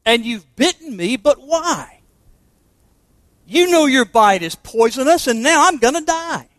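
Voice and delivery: rising, pleading cry to the snake, rather high at the end; the bitten woman begs to know why; dying woman's cry. Acted. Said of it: "cried the woman".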